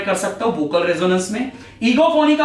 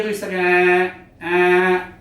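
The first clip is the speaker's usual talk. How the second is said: goat bleat; 3 semitones lower, much slower than usual. Shown as a demonstration. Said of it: "ब्लीटिंग गोट का sound".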